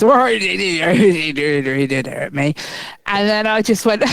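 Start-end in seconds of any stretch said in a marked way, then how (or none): 0.1-2.3 mock mumble. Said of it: "he was there doing his".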